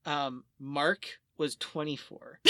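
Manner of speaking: ordinary delivery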